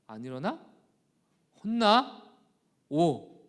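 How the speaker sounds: loud, sharp fatherly threat; stern threat. Retold or imitated. Father threatening his sulking son, stern loud warning. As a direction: warn the child to get up now.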